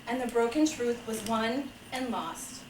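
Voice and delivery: measured picture-book reading; story narration. Acted. Father reading a fable to children, measured storytelling. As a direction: read it like a gentle fable, phrase by phrase.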